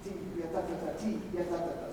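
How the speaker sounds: lightly detached "T, ya, ta, ta, ta"; light, separated syllables. Shown as a demonstration. Band teacher showing march articulation, light separated "T, ya, ta, ta, ta". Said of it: "marches are all about light and liquid separation".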